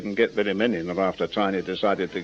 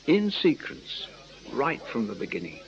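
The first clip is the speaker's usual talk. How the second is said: slow and careful. Acted. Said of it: "think carefully".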